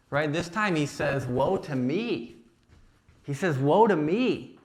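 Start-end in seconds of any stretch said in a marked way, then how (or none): 1.2-2.3 quiet lament. Acted. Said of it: "literally declaring God's judgment on himself". 3.6-4.6 louder declaration. Acted. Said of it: "literally declaring God's judgment on himself".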